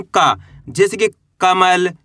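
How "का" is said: crisp "का", no puff of air; letter का demo. Shown as a demonstration. Teacher showing learners how to read का, letter demo. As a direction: say "का" with an unaspirated k and long vowel. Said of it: "कैसे पढ़ेंगे इसको अपन".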